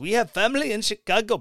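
put-on Indian English accent. Acting out someone caught sneaking across the border, put-on Indian accent. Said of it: "an Indian accent".

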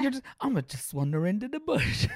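put-on English accent. Voicing someone wandering into the bush, in a put-on english accent. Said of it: "I don't want to do the awfully accent".

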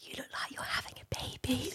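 put-on very soft, hushed whisper, like a child. Telling a story about what a five-year-old child whispered, imitating a child whispering. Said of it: "she whispers and she goes".

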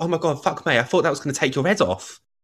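Essex woman's voice. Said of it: "And she was like".

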